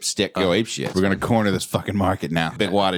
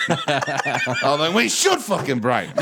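slow, with SHOULD punched and stretched; stress on SHOULD; 4 semitones higher, slower than usual. Shown as a demonstration. Comic working through the line word by word, stress on SHOULD. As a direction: lean heavily on "should" through a slow take. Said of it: "emphasize each word".

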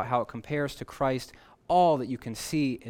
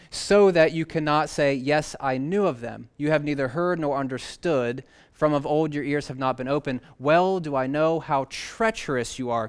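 scripture reading; 3 dB louder than usual. Acted. Preacher reads God's words aloud.

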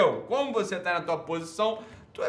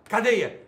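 "cadeia" said higher and louder, set apart; stressed example word; 6 semitones higher, 6 dB louder than usual. Shown as a demonstration. Host giving example words, "cadeia" punched louder. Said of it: "Se eu falar".

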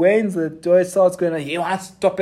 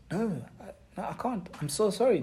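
much softer, small hushed voice; a quiet, humbled confession; humbled apology; 3 semitones higher, 8 dB quieter, faster than usual. Acted. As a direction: shrink before God. Job's humbled reply.

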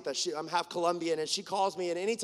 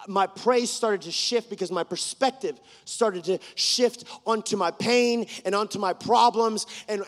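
impassioned preaching; 6 dB louder than usual. Acted. Preaches in driving repeats.

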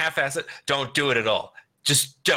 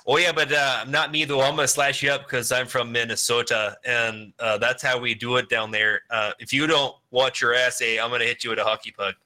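mock Minnesota accent. Mocking Christian Slater's accent, mildly hammed-up. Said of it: "Christian Slater be like".

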